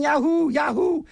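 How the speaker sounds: high shouted yahoo, mock rally cheer; hammed-up campaign whoop; imitating Howard Dean yelling. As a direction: yell it high like a hyped candidate. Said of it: "and I was yelling".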